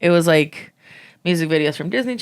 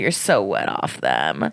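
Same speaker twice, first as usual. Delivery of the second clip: much lower, slow, drawling put-on voice. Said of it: "your Mary impression".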